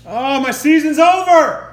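groaning at a fantasy loss; despairing outburst. Real, not acted. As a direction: moan that it's all over. Fantasy team loses.

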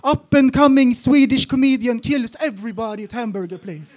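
an imagined English news headline, read out grandly; mock headline. Imagining global fame, reads out a headline in a grand mock-news voice. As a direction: announce it like a world news headline. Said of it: "internationella rubriker".

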